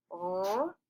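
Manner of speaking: letters said one by one; spelling it out. Shown as a demonstration. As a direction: chunk "R-O-D" letter by letter. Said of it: "Let's chunk it out".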